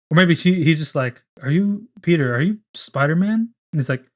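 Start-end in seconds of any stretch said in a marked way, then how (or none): 1.4-3.5 high, incredulous questions; stunned realization. Retold or imitated. MJ suddenly recognizing Peter, high and incredulous. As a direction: ask it as the truth dawns.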